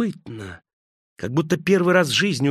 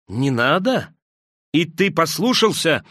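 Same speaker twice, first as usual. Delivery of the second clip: "Не надо?" thrown back in scorn, a touch higher; mocking echo; 4 semitones higher than usual. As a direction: sneer the words back at Peter. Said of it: "засмеялся Искариот".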